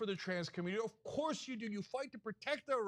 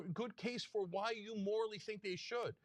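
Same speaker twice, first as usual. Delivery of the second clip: ordinary talk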